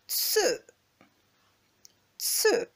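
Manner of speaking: falling tone "tse", short; fourth tone tse. Shown as a demonstration. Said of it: "on part du aigu et on descend rapidement".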